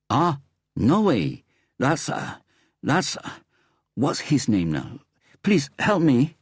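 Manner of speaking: high, excited foreign tourist voice; eager stranger. A narrator's reading. A stranger in the lift begs Harry for help, high and eager. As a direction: pitch it up, eager and pleading. Thai man in lift asking.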